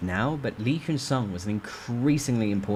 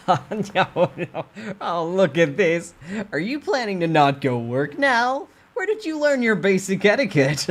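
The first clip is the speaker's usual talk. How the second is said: sneering boss; 10 semitones higher, 6 dB louder than usual. Acted. Boss scolds mockingly.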